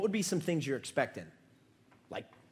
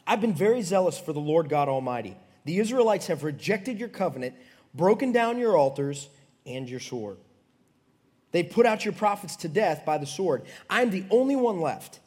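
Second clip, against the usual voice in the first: loud, high impassioned complaint; protesting prophet; 5 semitones higher, 7 dB louder than usual. Acted. Prophet pleading his zeal to the Lord, impassioned. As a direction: declaim it forcefully to God.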